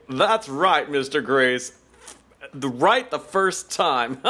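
lightly hammed-up game-show host; fake American TV host. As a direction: imitate a phony TV presenter, drawing out the ending. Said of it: "Like that really fake American T V show".

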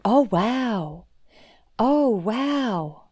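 hushed mock wonder; drawn-in, awed impression of surprise; endlessly surprised. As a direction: imitate someone marvelling like a child. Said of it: "endlessly surprised by how this sari works".

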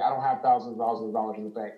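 rattled off fast, mildly panicked; retold freak-out. Retelling a client's worry over costs, mildly freaking out. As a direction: rush it as a mock fretting quote. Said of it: "she was freaking out".

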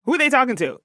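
high, scoffing disbelief; dismissive scoff. Pretend. Woman rejecting put-down messages, scoffing high. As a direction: brush off the insult with a high what. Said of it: "be like".

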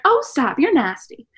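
high, teasing dad voice; a dad's mock-disgusted squeal. Dad teasing his daughter, high mocking squeal. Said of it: "he was like".

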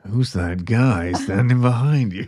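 slow, ominous creepy question; creepy whisper-warning voice. Pretend. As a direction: spook your friend on purpose. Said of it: "just turn around and be like".

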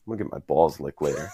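understated, matter-of-fact Billy imitation. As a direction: say it low and casually, as plain fact. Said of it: "he's so matter of fact".

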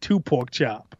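slow, heavy demand; slow Suge voice. Pretend. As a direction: drawl the order like a tired boss. Repeating Suge's demand.

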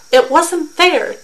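high, loud, drawn-out complaint; indignant cry, stretched out; loud protest. A narrator's reading. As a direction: wail that it's unjust. Protesting the draw in story.

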